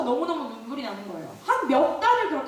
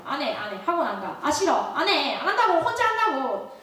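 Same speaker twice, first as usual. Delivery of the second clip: mildly irritated retold refusals, climbing in pitch; retold stubborn protest, building slightly; angry refusal. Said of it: "화가 났어요".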